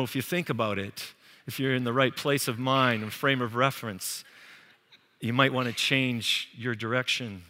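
mock-polite, softly hesitant prophet; polite Canadian hedging. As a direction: tiptoe gently round the warning, overly polite. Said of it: "talk in Canadian language, you know, like".

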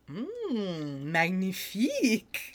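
put-on slow, soft savoring "magnifique" in a French accent; a dreamy French chef tasting the sauce. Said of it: "He takes a bite and is like".

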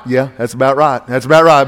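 low, nonchalant shrug of agreement; lightly acted weary agreement; resigned acceptance. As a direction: drop down into blasé acceptance. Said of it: "we were about like".

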